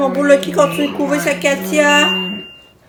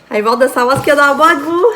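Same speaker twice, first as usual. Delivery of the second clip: eager, fast urging; 4 dB louder, faster than usual. Real, not acted. Urging everyone about the box.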